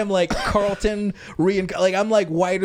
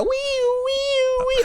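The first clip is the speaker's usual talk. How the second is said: very high voiced police siren; imitated siren; much slower than usual. London cops on foot with no cars, voicing a siren. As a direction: wail like a siren by mouth. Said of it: "So they just go".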